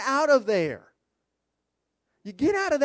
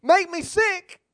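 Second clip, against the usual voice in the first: mock prayer; 8 semitones higher, slower than usual. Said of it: "guess what we're saying".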